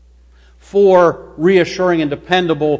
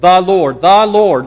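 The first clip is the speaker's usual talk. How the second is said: THE hit hard as "thee", louder; stress on THE; 4 dB louder than usual. Shown as a demonstration. Preacher emphasizing each word for the congregation, stress on THE. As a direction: punch "The" in "The Lord" each time. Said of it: "Let's emphasize the".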